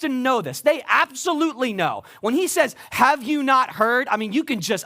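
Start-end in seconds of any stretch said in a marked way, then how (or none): 2.9-4.1 slow, sarcastic put-down of a question; condescending and sarcastic. Retold or imitated. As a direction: talk down to them, drawing it out. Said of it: "the condescending and sarcastic tone".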